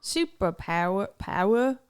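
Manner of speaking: mock Australian; Australian accent. Shown as a demonstration. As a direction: drop the R's like an Australian. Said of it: "when she does Australian accents".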